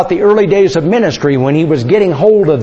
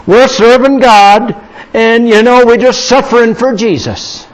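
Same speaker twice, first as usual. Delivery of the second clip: raised, drawn-out mock lament; mock suffering father; 4 semitones higher, 3 dB louder than usual. Dad telling hungry kids they are suffering for Jesus, mock-pious lament. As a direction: play the martyred dad, loud and slow on the opening. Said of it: "now I could have said".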